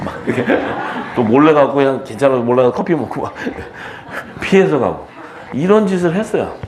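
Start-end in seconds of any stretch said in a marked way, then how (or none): 0.1-5.1 amused confession, laughing through it. Real, not acted. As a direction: chuckle between phrases while telling on yourself. Laughing over own sneaky past. (웃으며 털어놓는 말투)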